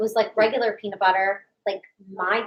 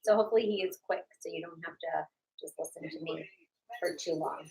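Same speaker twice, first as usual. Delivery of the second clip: talking through sticky peanut butter; words round a mouthful of peanut butter; mouth full of peanut butter. Real, not acted. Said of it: "eating some peanut butter".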